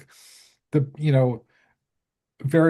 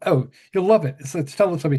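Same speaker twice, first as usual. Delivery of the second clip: enthusing Caroline; 4 semitones higher, faster than usual. Retold or imitated.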